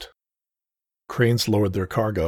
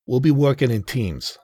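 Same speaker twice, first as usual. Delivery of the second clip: higher, louder sergeant voice; police sergeant; 5 semitones higher, 4 dB louder than usual. Acted. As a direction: lay out orders like a cop. Sergeant speaks up.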